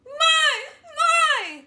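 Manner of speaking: high loud crying my; crying call. Shown as a demonstration. Teacher demos the crying call, high and loud. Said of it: "this crying call".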